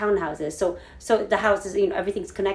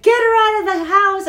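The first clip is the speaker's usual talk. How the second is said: much higher, louder commanding shout; urgent order; 10 semitones higher, 7 dB louder than usual. Retold or imitated. 911 dispatcher ordering her to get the niece out, loud shout. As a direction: bark the order. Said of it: "the nine one one lady's like".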